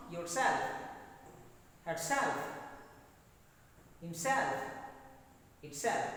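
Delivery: "yourself, herself, himself, itself", each leaning on "self"; stress on second syllable. Shown as a demonstration. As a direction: model each for repetition with force on SELF. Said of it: "You pronounce after me".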